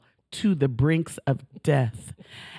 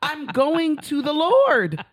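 mock dying plea; 11 semitones higher, slower than usual. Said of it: "I am telling her".

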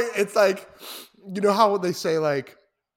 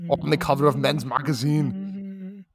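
put-on Arnold Schwarzenegger accent, speeding up. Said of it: "continue the accent".

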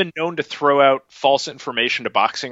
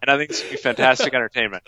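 laughing; faster than usual. Real, not acted. Gleeful about the fight.

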